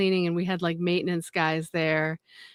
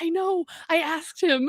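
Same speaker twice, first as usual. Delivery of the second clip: deadpan coworkers; 10 semitones higher than usual. Retold or imitated. Coworkers answer dismissively.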